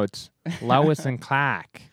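slow "Lois and Clark", dropping the r; drawn-out "Lois", Boston style; Boston accent. Acted. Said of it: "how to do a Boston accent".

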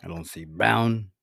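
lightly put-on Italian wiseguy; deadpan mob boss musing; mock mobster accent. Mobster character answering about colorblindness. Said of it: "Yo, your accent just".

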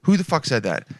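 ordinary talk, nothing marked

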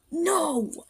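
high, mild mock cry; sharp no. Warrior crying out to stop the attack. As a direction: cut them off with one sharp word. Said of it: "Split Claw said".

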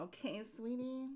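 quiet mimicry of the caller's goodbye; hushed caller imitation. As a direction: murmur the sweeties under the breath. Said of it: "that was the".

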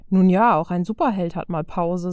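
lightly hammed-up smugness; mock arrogance. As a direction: put on a joking superhero swagger. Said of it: "in einem gespielt überheblichen Tonfall".

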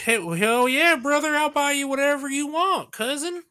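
loud, high, hollering Southern good ol' buddy; stereotype Southern accent. Acted. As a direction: whoop it up in a hammed-up Southern accent. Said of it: "that super, uh, stereotype, like, Southern accent".

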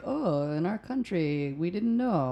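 drawn-out mock-innocent tourist; feigned innocence. Server mimics tourists who claim not to know tipping, mock innocent. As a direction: play clueless, lifting the end.

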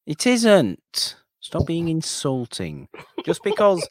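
high, indignant protest; mock offended. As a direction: play the insulted old man.

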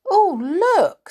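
high, loud gasp of amazement; astonished. A narrator's reading. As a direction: exclaim it, pitched right up in wonder. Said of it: "said Moonface in astonishment".

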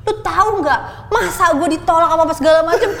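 high, excited retelling of a phone call; retold laughing confession. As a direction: imitate gleefully spilling news to a friend. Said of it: "gue ketawa-ketawa ngeceritain itu".

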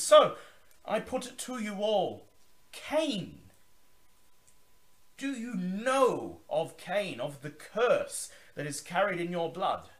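high, loud, grand vampire host's welcome; Zachary Forge. Acted. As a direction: boom it out like a theatrical old vampire. Zachary questions the guests.

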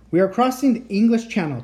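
a touch of a call over the engine. Acted. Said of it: "Teddy called".

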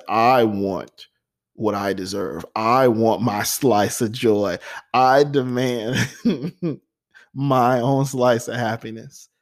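slow, drawn-out, emphatic demand with a laugh; defiant demand. Retold or imitated. A man declaring to himself that he deserves happiness, slow and emphatic. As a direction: lean on each word, claiming joy.

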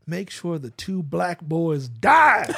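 slow build to a loud, drawn-out final word; mock villain outburst. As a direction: hammer out the evil goal, stretching the end. Mock villain's single goal.

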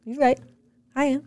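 husband agreeing. Pretend. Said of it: "He's gonna be like".

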